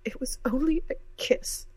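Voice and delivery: furious tears. A narrator's reading. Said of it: "tears of fury in her eyes".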